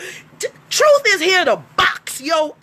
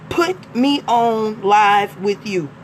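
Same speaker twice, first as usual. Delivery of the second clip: curt demand read; 5 semitones lower, slower than usual. Retold or imitated. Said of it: "That's not the way that we ask".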